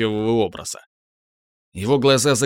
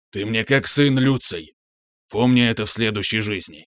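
dark lord. Acted. Monster farewell.

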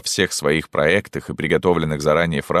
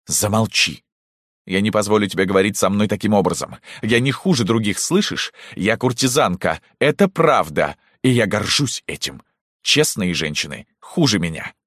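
furious yelling; 5 semitones higher than usual. Acted. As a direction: scream her down in fury. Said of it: "она закричала". (закричала в ярости)

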